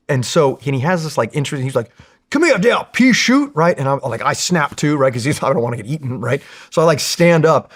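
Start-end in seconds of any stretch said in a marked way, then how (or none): 2.3-3.5 calling out. Retold or imitated. Gunny calling him over.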